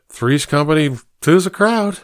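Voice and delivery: put-on drunk man. Drunk guest jokes.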